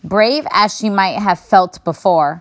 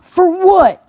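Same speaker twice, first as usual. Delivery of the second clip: put-on puzzled old bear; 12 semitones higher, 6 dB louder than usual. A narrator's reading.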